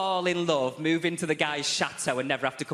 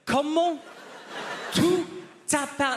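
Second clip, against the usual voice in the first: shrieking professor; 12 semitones higher than usual. Retold or imitated. Professor at the end of his tether, shrieking the question. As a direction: shriek the question in hammed-up despair. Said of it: "He's like".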